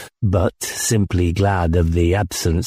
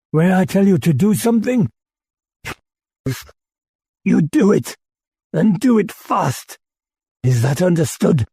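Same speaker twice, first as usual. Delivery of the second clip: put-on drunk tirade; 11 semitones higher than usual. A narrator's reading. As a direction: lay down the law, drunk and raging. Drunk commander lays down law.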